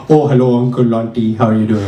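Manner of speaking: light put-on Indian accent; polite mock Indian accent. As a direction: greet elders in a mild Indian accent. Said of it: "I could go to India and be like".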